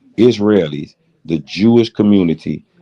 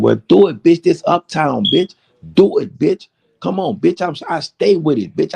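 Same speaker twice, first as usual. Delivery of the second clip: taunting shout; 11 semitones higher than usual. Retold or imitated. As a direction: yell it up in his face, egging him on. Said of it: "I said".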